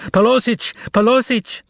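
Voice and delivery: high desperate cry for the manager; miserable shout. Acted. Salesgirl crying to the whole store for the manager, high and desperate. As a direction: call out for help in panic. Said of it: "shouted out miserably".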